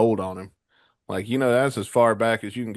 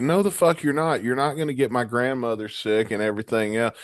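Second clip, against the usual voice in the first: retold angry refusal; 3 semitones higher than usual. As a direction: put your foot down, retelling it. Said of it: "And I got pissed".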